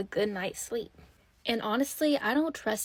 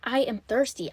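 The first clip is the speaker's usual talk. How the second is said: mildly sassy retort, words spaced out; stank attitude; 3 semitones higher than usual. Acted. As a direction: talk back with a touch of indignant attitude. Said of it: "the biggest stank attitude".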